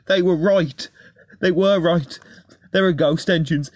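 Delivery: high, frightened lament; whimpering. A narrator's reading. Rheneas now believes the ghost stories, whimpering. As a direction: whimper it in fearful disbelief, pitched high. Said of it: "he whimpered".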